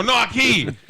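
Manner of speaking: mock insistence. He echoes back, louder.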